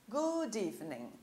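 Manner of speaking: "Good evening" slowly, the d pulled into evening; linked D and E. Shown as a demonstration. Teacher models the greeting for easier understanding, D linked to E in "Good evening". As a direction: run "Good evening" together as goo-deevening. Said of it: "Eu puxei o D e o E todo junto".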